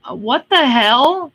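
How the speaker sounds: slow, laughing what the hell; laughing disbelief. Real, not acted. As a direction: crack up in disbelief. Laughing at an absurd scam call.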